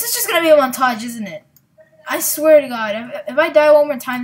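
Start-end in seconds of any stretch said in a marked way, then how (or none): 2.1-4.2 frustrated. Real, not acted. Dying repeatedly, frustrated.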